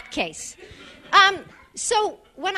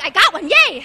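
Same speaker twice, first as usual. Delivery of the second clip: mock glee; 4 semitones higher, 8 dB louder than usual. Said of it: "now you're like".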